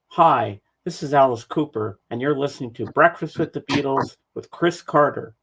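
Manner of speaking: a hint of a rock star's radio spot; a rock singer's promo. Co-host retelling a radio promo, lightly voiced announcer. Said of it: "It said".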